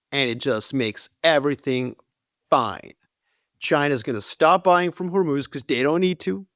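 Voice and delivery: a hint of a smug finance bro. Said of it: "finance bro voice".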